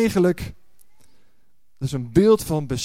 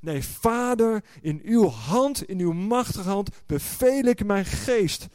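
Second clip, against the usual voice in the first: triumphant Jesus; 3 semitones higher than usual. Retold or imitated. Voicing Jesus' triumph on cross.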